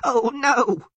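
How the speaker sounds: very high, loud bleat; bleating Sylvan. A narrator's reading. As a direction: bleat out a sudden alarmed cry. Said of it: "the Sylvan suddenly bleated".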